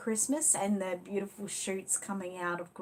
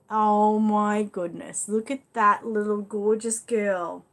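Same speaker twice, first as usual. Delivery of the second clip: loud, drawn-out admiration; delighted gushing; 7 dB louder, slower than usual. Real, not acted. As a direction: gush over a newborn's photo. Shows viewers friend's new baby photo.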